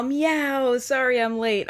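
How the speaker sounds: high, loud mock cat meow; a hammed-up kitty meow; playful meow. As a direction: meow like a cat cruising into the chat. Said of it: "with a big old meow".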